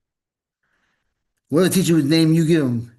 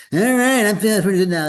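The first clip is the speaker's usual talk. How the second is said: higher, louder, energised "all right"; ready to rock and roll, brightening up; upbeat; 5 semitones higher, 4 dB louder than usual. Real, not acted. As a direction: pump yourself up to begin. Ready to start the session.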